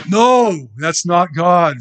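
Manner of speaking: high, loud, firm rejection; emphatic no. Real, not acted. Preacher to congregation, loudly rejecting the false view. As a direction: shout down the wrong idea.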